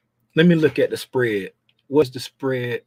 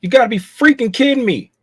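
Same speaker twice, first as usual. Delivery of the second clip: higher, exasperated outburst; exasperated disbelief; 8 semitones higher, 4 dB louder than usual. Real, not acted. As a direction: throw the words up in disbelief. Repeats exasperated.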